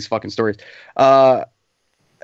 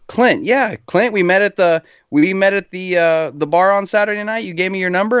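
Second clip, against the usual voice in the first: put-on girl on phone; 7 semitones higher than usual. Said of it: "And she goes".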